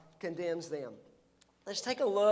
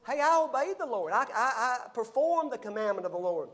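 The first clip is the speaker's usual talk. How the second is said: protesting Saul; 3 semitones higher than usual. Retold or imitated. Saul protesting his obedience.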